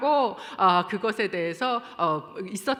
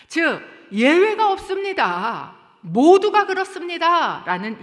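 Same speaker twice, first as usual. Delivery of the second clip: slow, much louder, higher declaration; forceful preaching; 9 semitones higher, 12 dB louder, slower than usual. Acted. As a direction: proclaim it with full force. Preacher hammers the conclusion.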